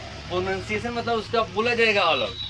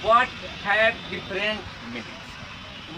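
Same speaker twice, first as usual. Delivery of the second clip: reads the definition word by word, very slowly; slow dictation; much slower than usual. Acted. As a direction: dictate it slowly so students can write. (धीरे-धीरे बोलकर लिखवाना)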